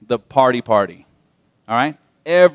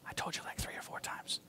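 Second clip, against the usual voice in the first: teasing whisper aside; 25 dB quieter than usual. Real, not acted. Pastor teasing the congregation in a whisper. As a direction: whisper it like a little joke.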